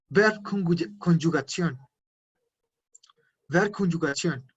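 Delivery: "Verbconjugación" spelled out slowly, syllable by syllable; slow demo. Shown as a demonstration. Teacher answering how to say verb conjugation. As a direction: drag out "Verbconjugación" for students to copy. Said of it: "Se dice verbal".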